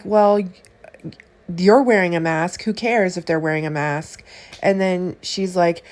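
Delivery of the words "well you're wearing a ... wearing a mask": heated retort. Retold or imitated. Heated retort to woman in line.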